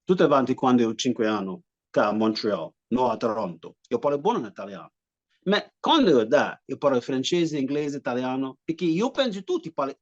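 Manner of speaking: broken Italian on request; speaking Italian. Shown as a demonstration. Italian speaker shows his Italian when asked. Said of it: "here goes".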